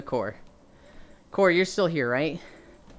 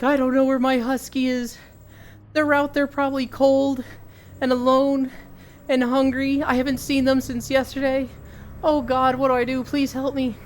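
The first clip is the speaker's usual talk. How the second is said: panicked owner; 7 semitones higher than usual. Retold or imitated. Panicked dog owner to rangers.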